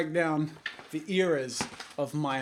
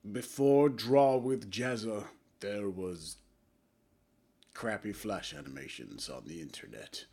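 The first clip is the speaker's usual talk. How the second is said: dramatic opening; 6 semitones lower than usual. Shown as a demonstration. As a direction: hush it down like a grave documentary. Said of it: "in a cringy attempt at a dramatic opening".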